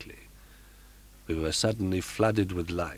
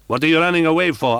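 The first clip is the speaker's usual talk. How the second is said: loud, high furious demand, fast; 10 semitones higher, 9 dB louder, faster than usual. Acted. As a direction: shout after her in a fury, fast. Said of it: "asked the furious voice".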